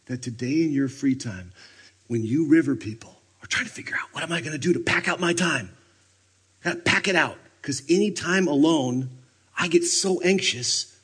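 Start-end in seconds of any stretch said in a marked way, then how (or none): 4.1-10.9 higher and louder, a frantic rushed worrier; anxious busy person. Acted. Preacher mocking busy people's panic, frantic. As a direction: rattle it off like someone terrified of empty time.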